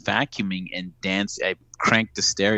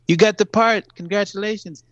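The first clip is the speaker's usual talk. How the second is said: much higher, bright announcing the news; excited producer; 12 semitones higher, 3 dB louder than usual. Retold or imitated. Producer thrilled to tell Raul he got the part, high excited voice. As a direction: shout the good news up high. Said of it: "And she goes".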